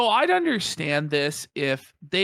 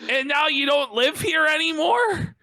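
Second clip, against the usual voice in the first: mock outrage; 5 semitones higher than usual. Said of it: "mocking the caseworker".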